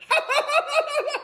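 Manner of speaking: high cackling laugh of a middle-aged woman; middle-aged woman cackle. Retold or imitated. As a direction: cackle like an old lady. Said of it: "laughing like an old middle-aged white woman".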